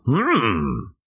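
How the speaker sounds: drawn-out "Hmm", then the name with retold relish; excited recognition. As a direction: savor the find, mock-excited. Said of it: "he's, like, all excited about it".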